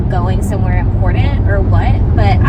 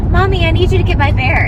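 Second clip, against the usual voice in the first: put-on higher pleading kid voice; child voice; 9 semitones higher than usual. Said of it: "it was a".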